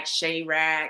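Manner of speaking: "Chirac" said as SHAY-rack; first syllable of "Chirac" like shay; alternate pronunciation. Shown as a demonstration. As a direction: say "Chirac" with an AY vowel. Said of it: "I pronounced her name three or four different ways".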